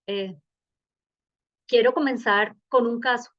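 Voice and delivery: normal talking voice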